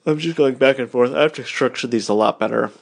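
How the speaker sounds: talking through a yawn; words stretched by a yawn. Real, not acted. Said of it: "I'm sorry that I'm yawning".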